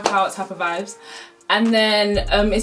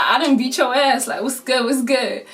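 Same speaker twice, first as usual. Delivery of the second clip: trash talking; 3 semitones higher than usual. Retold or imitated. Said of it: "talking mad trash".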